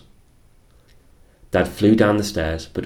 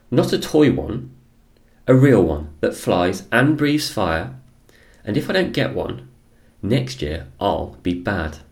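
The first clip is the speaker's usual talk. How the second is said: put-on demanding child; 3 semitones higher than usual.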